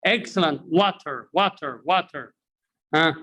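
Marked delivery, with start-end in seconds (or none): 0.7-2.3 "What are" run together as one word, "water"; linked what are. Shown as a demonstration. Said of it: "how do you pronounce it".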